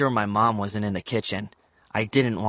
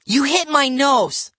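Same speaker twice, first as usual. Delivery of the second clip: very high, loud, slow complaint; angry wail; 6 dB louder, slower than usual. A narrator's reading. Livy accuses Bradley of hitting her, high wail.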